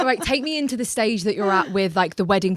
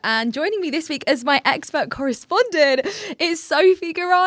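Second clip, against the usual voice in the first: bright, high newsreader delivery; news reporter voice; 7 semitones higher than usual. Acted. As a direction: read it like a TV news anchor. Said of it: "good, like, um, news reporter voice there".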